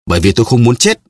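Milady wails against death, struggling; struggling cry. A narrator's reading. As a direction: cry out as you thrash. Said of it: "Melody vừa giãy giụa vừa gào".

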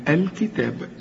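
الكتاب with a full long aa; full long alif. Shown as a demonstration. Teacher shows lengthening after taa, full alif in الكتاب. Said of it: "تمدها ألف كاملة".

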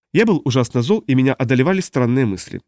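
ordinary delivery

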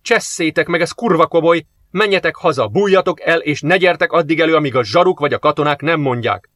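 shouted. Acted. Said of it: "ordított rá".

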